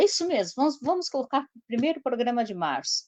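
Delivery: a hint of the thrilled colleague; mock eager agreement. Host quoting Silvia eagerly agreeing, lightly excited. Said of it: "não expressei com toda a entonação de voz dela".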